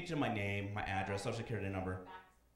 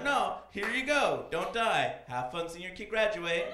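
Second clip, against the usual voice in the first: mock kind doctor; 4 semitones higher, 4 dB louder, slower than usual. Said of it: "And be like".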